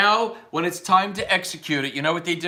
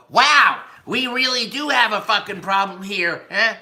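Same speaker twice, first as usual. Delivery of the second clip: hammed-up astonishment; mock realization; 2 semitones higher, 4 dB louder than usual. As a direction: act out an eye-opening discovery. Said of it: "so he can go".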